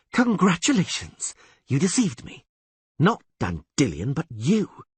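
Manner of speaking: high, cutting sarcastic praise; bitter accusation. Acted. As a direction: sneer it bitterly.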